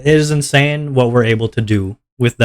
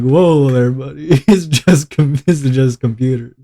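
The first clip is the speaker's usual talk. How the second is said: mock calming down; slower than usual. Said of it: "You're like".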